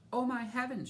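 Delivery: high alarmed cry; mother gasping at the stripes, crying out loud; cried out. A narrator's reading. Mother shocked at her striped daughter, crying out. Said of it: "she cried".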